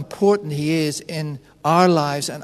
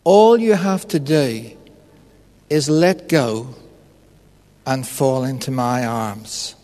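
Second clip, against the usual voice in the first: voice of God; 5 semitones lower than usual. Retold or imitated. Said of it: "the voice says to him".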